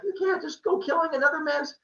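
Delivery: high-pitched indignant rant; angry yelling. Acted. Apollo mid-yell at Maya about killing cows, angry. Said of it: "in the middle of him yelling at Maya".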